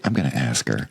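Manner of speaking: whispered mischievous plan; conspiratorial whisper. Retold or imitated. Husband whispering to friend at dinner table. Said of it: "And I was like".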